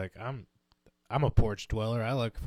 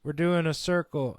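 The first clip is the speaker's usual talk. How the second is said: higher, louder mock call to the stoners; calling up the stairs; 5 semitones higher, 5 dB louder, slower than usual. Partygoer calls the stoners upstairs, higher and louder. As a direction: shout an invite across the house. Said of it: "I hear somebody go".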